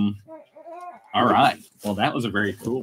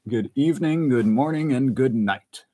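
sign-off; 4 semitones higher, 4 dB louder than usual. Acted.

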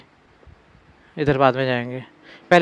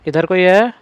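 louder question lifting at the end; calling out; 3 semitones higher, 5 dB louder, slower than usual. Real, not acted. Player checking a dark room for anyone, raised rising call. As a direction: call out to whoever might be there.

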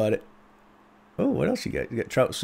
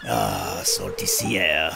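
Willy the Fisherman voice; 4 dB louder than usual. Acted. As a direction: play the salty old fisherman greeting a newcomer. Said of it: "That's my Willy the Fisherman voice".

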